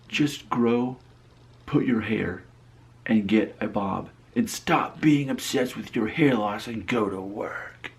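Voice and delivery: slow, emphatic mock-angry readout; mild mock anger. Reading an angry all-caps comment, slow mock anger. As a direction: read out an all-caps rant, deliberately spaced. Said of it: "so you know it's angry".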